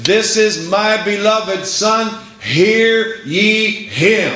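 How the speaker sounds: slow, solemn voice from heaven, hear ye him drawn out. Retold or imitated. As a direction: proclaim it slowly like God speaking from heaven. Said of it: "a voice came from heaven and said".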